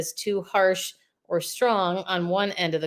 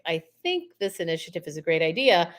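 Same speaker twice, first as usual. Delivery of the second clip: hedged opinion in the usual pitch, little energy; weaker, wavering. Shown as a demonstration. Coach showing a wavering opinion, weaker tone. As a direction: offer it tentatively, leaning on "think". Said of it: "with a weaker tone of voice".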